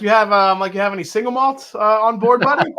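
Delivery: clumsy fake Scottish brogue; terrible Scottish accent. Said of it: "my attempt at a terrible Scottish accent".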